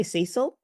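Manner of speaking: "Cecil" said as SEE-sil; long ee in the first syllable of "Cecil"; own pronunciation. Shown as a demonstration. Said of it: "is the way I would pronounce that".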